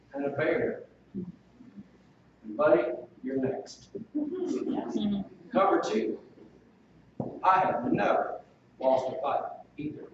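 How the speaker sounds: a lightly played cocky boast; mock tough guy. David taunting Goliath as a hypothetical tough guy, lightly voiced. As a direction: swagger through the taunt, only half-acted. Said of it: "than playing the tough guy".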